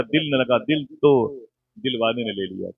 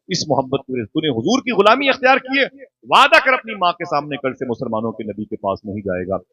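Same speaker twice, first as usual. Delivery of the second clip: angry aunt. Acted. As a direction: bark the ultimatum at the boy. Angry aunt threatens the boy. (नाराज़ खाला की डांटती, धमकाती आवाज़)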